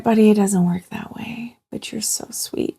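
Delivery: soft, hushed motherly reassurance; imitating a mum soothing her little boy; tender retelling. Mother gently answers her worried son.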